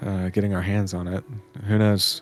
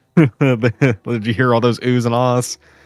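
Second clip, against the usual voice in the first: normal talking voice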